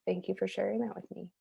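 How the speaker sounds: soft, sincere thanks; retold tender acknowledgement; gentle gratitude. Gently receiving friend's grief, retold.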